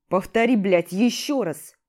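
loud, cursing challenge; angry shout. Acted. Hero cuts off the rival, angry loud challenge. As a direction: shout him down, spitting blood. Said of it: "перебивал его, сплёвывая кровь".

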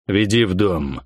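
curt order. Acted. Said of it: "резко бросил он".

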